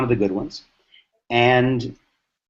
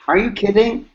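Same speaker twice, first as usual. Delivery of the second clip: pitched way up in disbelief; incredulous; 8 semitones higher than usual. Retold or imitated. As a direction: retell Bill's disbelief, voice jumping high. Bill incredulous at friend's objection.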